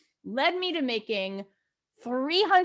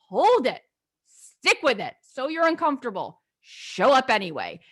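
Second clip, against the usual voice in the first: firm self pep talk; 4 dB louder than usual. Retold or imitated. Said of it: "sat on a phone and said".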